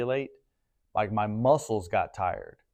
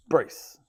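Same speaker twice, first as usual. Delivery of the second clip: sharp gasp; 4 semitones higher than usual. Shown as a demonstration. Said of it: "Hold our breath".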